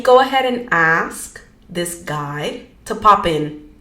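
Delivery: easy guided-meditation delivery with pauses. Real, not acted. Leading listeners into grounding, guided meditation. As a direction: guide listeners gently, phrase by phrase.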